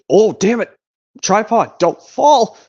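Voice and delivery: sudden high, loud cry as the tripod tips; real alarmed yell. Real, not acted. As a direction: yelp in real alarm to stop it falling. Tripod falling over mid-recording.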